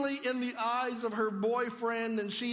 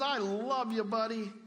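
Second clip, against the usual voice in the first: casual buddy love. Shown as a demonstration. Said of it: "hit your friend on the shoulder and says".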